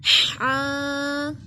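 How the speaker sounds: हा breathed from mid-throat; strong throat haa; throaty haa. Shown as a demonstration. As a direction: push हा from the middle of the throat. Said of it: "दरमियाने हल्क से अदा होता है".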